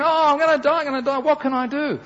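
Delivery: hammed-up moaning to the doctor; mock panicked patient complaining of pain; whiny patient. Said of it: "and so he's saying".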